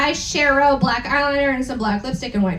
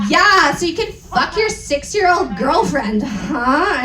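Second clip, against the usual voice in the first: mildly sarcastic mock shout; a touch of scornful yelling; 2 semitones higher than usual. Reading the fanfic aloud, a mildly sarcastic mock shout. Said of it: "I shouted sarcastically".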